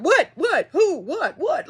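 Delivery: high, confused string of questions; clueless dog voice. Retold or imitated. Owner voicing the dog's confusion, clueless high voice. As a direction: voice a bewildered dog, pitch popping up. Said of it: "she be looking like".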